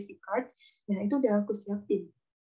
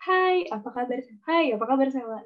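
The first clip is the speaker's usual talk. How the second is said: middle pitch; 3 semitones higher than usual. Shown as a demonstration. Teacher demonstrates the middle tone on a greeting, mid-range. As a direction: say hello in a centred natural pitch. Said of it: "Nada tengahnya".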